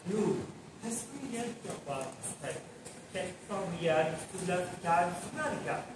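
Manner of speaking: hushed, soothing murmur of mock English; breathy, calm voice. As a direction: speak softly and slowly, as if consoling. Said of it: "tom de voz mais, mais soproso e calmo". (voz soprosa e calma)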